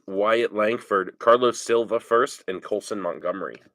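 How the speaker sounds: stuffy nose. Real, not acted. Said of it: "sorry about the sniffles".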